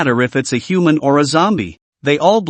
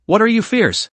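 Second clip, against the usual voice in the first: pitched high, aggrieved and whiny; high aggrieved outburst; aggrieved cry; 6 semitones higher than usual. A narrator's reading. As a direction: cry it out like a wronged little fairy. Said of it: "directly cried out in aggravation".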